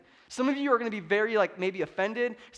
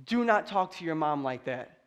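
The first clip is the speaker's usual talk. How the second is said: stern dad; 4 semitones lower than usual. Retold or imitated. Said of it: "discussions with a lower voice".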